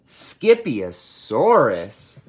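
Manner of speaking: surprised declaration. Acted. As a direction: draw the word out in disbelief. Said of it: "declared Mama Junebug Jones".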